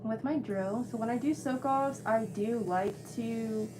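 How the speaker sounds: muffled behind a mask; talking through a mask; through a face mask. Real, not acted. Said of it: "I have my mask on".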